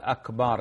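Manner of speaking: "أكبر" pronounced akbaar, long second vowel; lengthened vowel. Shown as a demonstration. Sheikh warning that the meaning changes, lengthened vowel. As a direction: hold the aa before the r in "أكبر". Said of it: "لأن المعنى يتغير".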